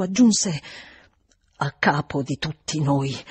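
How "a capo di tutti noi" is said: lower, heavy admission; dragged from deep down. A narrator's reading. Housekeeper confessing to governess, words drawn from deep down. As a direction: pull the words up from the depths. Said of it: "come se estraesse le parole ancor più dal profondo".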